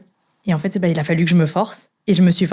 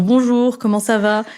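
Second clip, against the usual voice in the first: imitated greeting; 4 semitones higher than usual. Imitating colleagues greeting her in French.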